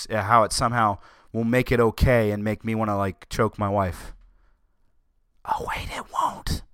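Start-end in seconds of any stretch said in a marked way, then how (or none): 5.4-6.6 soft, unvoiced whisper of sudden realisation; mock whisper. Host debunking the billboard scare, sarcastic whisper.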